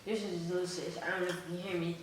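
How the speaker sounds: talking with food in mouth; words through a mouthful of food; mouth full. Real, not acted. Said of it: "I have food in my mouth".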